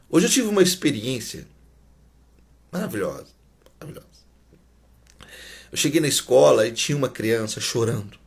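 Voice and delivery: ordinary talk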